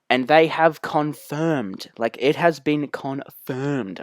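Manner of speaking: "confirmed" drawn out slowly for weight; slow right down and lean on "confirmed"; stress on confirmed. Shown as a demonstration. Host reporting what the rail team said, emphatic "confirmed". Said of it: "We're gonna put emphasis on that word".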